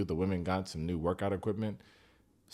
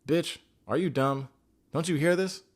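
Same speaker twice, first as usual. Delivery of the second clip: higher, louder, exasperated comeback; mock angry retort; 7 semitones higher, 4 dB louder than usual. Sophie snapping back at Katisha about Kieran, angry. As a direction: fire it back like you can't believe the question.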